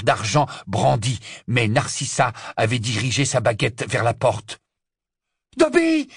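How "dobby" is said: high, loud shriek of the elf's name; high, loud summoning cry; yell. A narrator's reading. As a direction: scream for the elf. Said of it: "hurla-t-elle".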